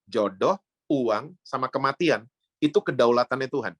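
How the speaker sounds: slow, spaced-out "Jodoh, uang" for emphasis; slow emphatic repeat. Shown as a demonstration. Preacher repeats the point to the congregation, slowly and deliberately. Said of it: "Saya ulang ya".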